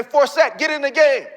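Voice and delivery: acting out a coach's order; urgent call-out. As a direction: call the player in, high and urgent. Coaches calling him into game.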